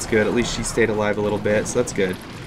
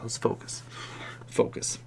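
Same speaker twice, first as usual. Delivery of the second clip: a breath of self-focus; whispered self-command; 13 dB quieter than usual. Real, not acted. Gamer calming himself before the battle, whispered. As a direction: whisper it to yourself. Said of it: "I'm gonna focus".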